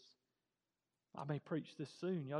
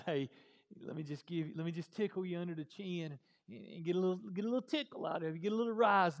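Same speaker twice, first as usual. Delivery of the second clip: mock playful voice; 5 dB louder, faster than usual. Mocking a soft God image.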